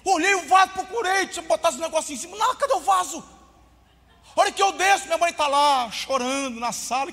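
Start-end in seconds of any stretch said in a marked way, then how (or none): 2.3-3.2 high, loud panicky cry of where is it; retold panic at the empty wardrobe; panicked search. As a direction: sound frantic as the gift is missing. Boy panicking, gift gone.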